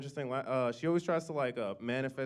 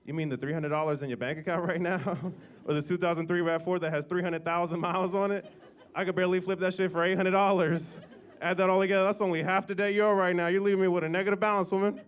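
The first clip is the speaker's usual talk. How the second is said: sarcastic son; 3 semitones higher, 5 dB louder than usual. Retold or imitated. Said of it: "And I was like".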